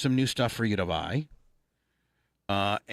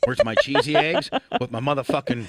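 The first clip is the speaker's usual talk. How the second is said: demanding morning grouch; 4 dB louder than usual. Retold or imitated. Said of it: "I'll tell you about the fucking morning voice".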